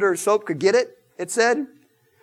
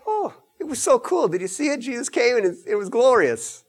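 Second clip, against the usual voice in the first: casual gush; 4 semitones higher than usual. Retold or imitated. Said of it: "It's not like".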